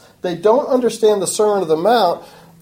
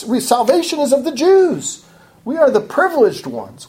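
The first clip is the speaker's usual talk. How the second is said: raised, proud voice of people boasting of their lineage; boastful protest; 5 semitones higher than usual. Retold or imitated. Proud Israelites protesting to God, higher boastful voice. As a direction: puff up and protest your pedigree. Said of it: "these are the ones who are boasting".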